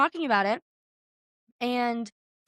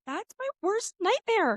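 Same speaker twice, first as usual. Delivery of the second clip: mock dread; 10 semitones higher, slower than usual. Retelling fear of skydiving.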